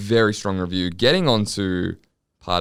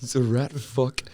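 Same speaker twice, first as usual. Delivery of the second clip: angry dad voice; 5 semitones higher than usual. Retold or imitated.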